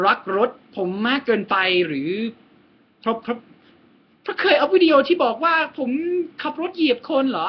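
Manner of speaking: mock indignant, high-pitched questions; incredulous protest. Asking why his car deserves not to start, incredulous.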